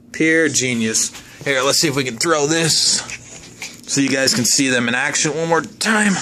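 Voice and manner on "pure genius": mock pride. Real, not acted. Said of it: "I engineered those".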